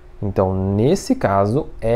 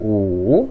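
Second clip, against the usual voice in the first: third tone on U, dips down then climbs back; 3 semitones lower than usual. Explaining the third tone while counting, falling-rising tone on U. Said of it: "O terceiro tom ele desce e sobe".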